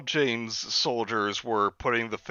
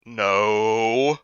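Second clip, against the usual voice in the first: higher, hummed put-on voice of Parker; Parker's voice; 6 semitones higher, slower than usual. Narrator voices Parker reporting the call. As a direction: voice Parker musing aloud. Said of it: "I asked Parker".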